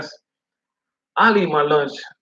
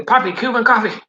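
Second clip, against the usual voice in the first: high, firm doting offer; insistent lady; 11 semitones higher than usual. Retold or imitated. Lady pushing Cuban coffee on the driver, high and firm. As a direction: repeat it like there's no choice. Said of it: "lady insists again".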